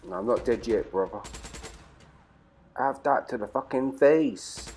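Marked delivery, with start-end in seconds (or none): 2.8-4.7 slow, steady taunt at normal loudness; slow gloat. Real, not acted. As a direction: savour it slowly without shouting. Gloating over a game kill.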